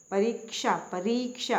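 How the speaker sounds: परीक्षा with the ee after r held long; long vowel shown. Shown as a demonstration. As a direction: stretch "ree" in pa-REE-ksha. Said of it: "आवाज़ आ रही है र पे बड़ी की".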